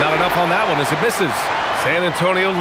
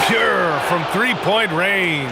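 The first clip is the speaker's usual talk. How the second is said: excited call; much slower than usual. Acted. Made three-pointer call.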